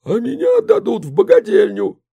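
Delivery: loud, high cry from behind the curtain; calling out. A narrator's reading. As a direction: call out shrilly from the next room. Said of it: "подала голос из-за занавески мама". (громко и высоко кричит из-за занавески)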